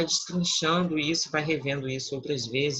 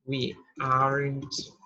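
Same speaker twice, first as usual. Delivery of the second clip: slow model pronunciation; much slower than usual. Shown as a demonstration. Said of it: "É assim que se pronuncia".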